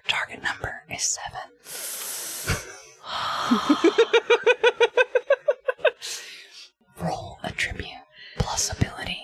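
whispering while stifling laughs; whisper, barely holding back giggles; trying not to smile. Pretend. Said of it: "I can't fucking keep a straight face".

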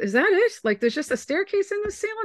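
high, mock-naive brother voice; a high, wide-eyed kid-brother voice; mimicking brother. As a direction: pitch the brother up high and innocent. Brother's let-down complaint retold.

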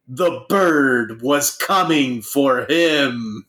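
slow, dramatic trailer-narrator voice; lightly voiced biopic narrator, drawn out; mock movie narrator. Friend imitating a biopic narrator, slow dramatic voiceover. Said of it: "the voiceover narrator".

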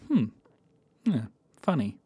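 flat unamused hmm yeah funny; deadpan. Shown as a demonstration. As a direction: say funny without laughing. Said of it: "because that's not a laugh".

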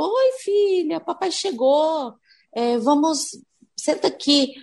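dad greets his daughter like a youtuber opening a video; youtuber intonation. Retold or imitated. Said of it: "Aquela entonação como se estivesse falando com a internet". (pai imitando entonação de youtuber)

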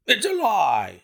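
loud, high furious denial; angry shout. A narrator's reading. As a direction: hurl the denial at him. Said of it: "he shouted".

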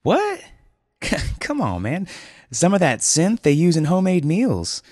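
very high, loud disbelief; loud high incredulous dude; shocked dude. Acted. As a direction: scoff in disbelief. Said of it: "Julian frowned".

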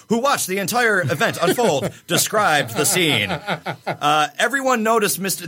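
news anchor voice. Shown as a demonstration. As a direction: read it like the evening news. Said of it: "like a news anchor".

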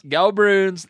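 loud mock Boston fan chant; New England accent. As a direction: cheer the Bruins in a thick Boston accent. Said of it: "someone with this accent".

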